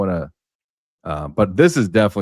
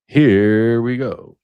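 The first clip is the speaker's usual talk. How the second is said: drawn-out hype; 2 semitones higher, 7 dB louder, much slower than usual. Real, not acted. Teasing the clip.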